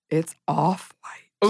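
slow, hushed conspiratorial confiding. Retold or imitated. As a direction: lean in and share a little secret. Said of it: "in such, like, a funny, conspiratorial voice".

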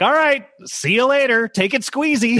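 high-pitched, overly casual farewell; mock breezy goodbye. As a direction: toss off an awkward mock goodbye. Mimics his awkward goodbye to her.

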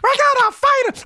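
mock squeaky high-pitched tough talk, laughing; de Blasio squeaky voice. Host mocking the mayor's glitched speech, squeaky and high. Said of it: "Like a Newt Rocky speech".

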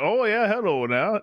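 slow, lightly Southern greeting. Shown as a demonstration. Showing the co-hosts her Southern grandpa voice, slow and light. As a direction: drawl the hello like a Southern grandpa. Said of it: "whenever I do my southern voice".

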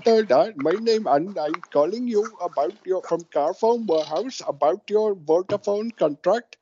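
high, lilting mock Valleys caller; Valleys Welsh accent. Cold caller pitching a phone contract, in a mock Valleys Welsh accent. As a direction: put on a sing-song Valleys Welsh accent. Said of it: "best Valley's accent".

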